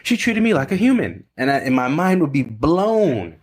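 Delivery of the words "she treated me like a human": thrilled student. Retold or imitated. Student reporting back to his coach, higher excited voice. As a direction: burst with happy disbelief. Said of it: "And he comes back to me".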